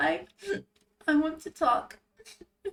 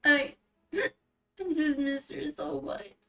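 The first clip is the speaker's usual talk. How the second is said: high, slow tearful wail; acted sobbing; 7 semitones higher, 4 dB louder, slower than usual. Rinku grieving her sister to Yale, sobbing. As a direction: drag the words out through sobs. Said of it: "My acting's too good".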